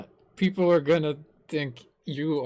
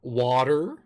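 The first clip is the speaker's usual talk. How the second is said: American accent; 4 semitones lower than usual. Shown as a demonstration. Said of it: "like, an American talking".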